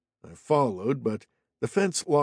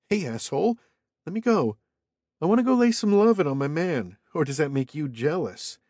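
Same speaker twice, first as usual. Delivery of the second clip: Cheryl's voice, sassy; 5 semitones higher than usual. A narrator's reading. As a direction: snap back high and sassy. Cheryl yells at goon.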